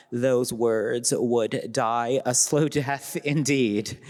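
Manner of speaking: slow, amused, laughing through the words; laughing slowly. Real, not acted. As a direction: let a laugh slip in slowly. Laughing joke.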